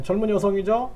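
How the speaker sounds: ordinary talk, nothing marked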